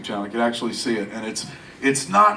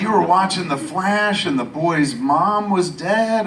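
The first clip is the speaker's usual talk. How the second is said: lightly voiced mother, higher and drawn out; baffled mother; 5 semitones higher, slower than usual. Mother questions son about crying video, baffled. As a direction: imitate a mother's slow disbelief.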